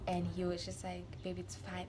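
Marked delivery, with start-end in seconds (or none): 1.2-1.8 retold soothing. Boyfriend soothing her.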